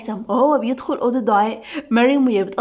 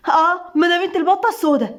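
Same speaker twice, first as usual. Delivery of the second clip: high, aggrieved complaint; annoyed; 6 semitones higher than usual. A narrator's reading. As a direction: sulk at being left out. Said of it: "قالتها ندى بضيق". (بضيق وتذمر)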